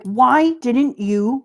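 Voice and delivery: slow, mildly heated demand; retold anger. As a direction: stretch it out in mock exasperation. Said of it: "gets so angry at him".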